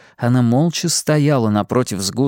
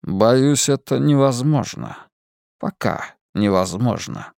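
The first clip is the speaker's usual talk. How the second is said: mysterious man; slower than usual. Acted. Lazarus calm.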